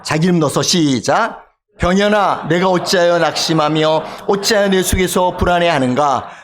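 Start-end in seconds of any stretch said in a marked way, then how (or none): 1.8-6.3 measured, sustained congregational reading; scripture recitation. Acted. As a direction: lead everyone in reciting the psalm aloud. Leads congregation's reading of psalm. (성경 구절을 낭독하는 말투)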